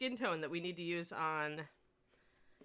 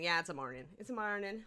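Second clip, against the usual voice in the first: put-on slight Scottish accent. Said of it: "I'm adopting a slight Scottish accent".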